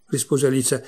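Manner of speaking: ordinary delivery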